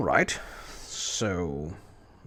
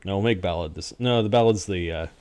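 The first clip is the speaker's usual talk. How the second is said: ordinary delivery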